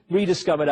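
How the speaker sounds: "rediscovered" repeated with its first syllable "re" emphasized; stress on RE. Real, not acted. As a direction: hit the opening "re" of "rediscovered". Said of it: "I emphasize the re".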